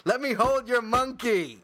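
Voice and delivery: high, slow, loud punchline said with relish; punchline redelivered. Shown as a demonstration. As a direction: savour the punchline, drawing it out. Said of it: "such a great joke".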